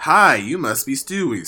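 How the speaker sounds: lightly voiced cheery greeting; Sakura's greeting. Reader voices Sakura greeting little Stewie, lightly perky. Reading Sakura's dialogue aloud.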